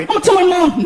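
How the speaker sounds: put-on high, whiny kid voice; little kid. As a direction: tattle like a small boy. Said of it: "I'm sorry".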